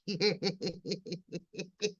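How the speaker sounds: soft, long trailing giggle; quiet helpless snickering that runs on; laughing. Real, not acted. Streamer joking she ordered the haircut, giggling. Laughs at her own joke.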